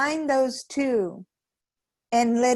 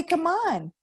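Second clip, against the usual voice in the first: upbeat inner coach. Pretend. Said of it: "will wake you up and say".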